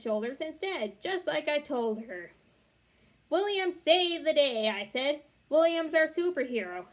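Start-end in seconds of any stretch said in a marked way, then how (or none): 3.3-6.9 loud, high proud proclamation. A narrator's reading. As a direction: announce him proudly. Proclaiming William a hero.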